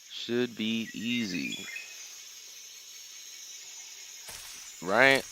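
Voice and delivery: gruff soldier voice. Pretend. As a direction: mimic a hardened soldier. Repeats own line differently.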